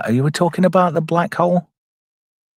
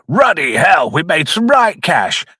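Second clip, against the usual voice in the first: lightly voiced character outburst, punched opening; hint of an exclaiming character, drawn-out ending; Jim Broadbent; 3 semitones higher, slower than usual. Reviewer voicing a film character's cash boast, light impression. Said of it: "Look at Jim Broadbent".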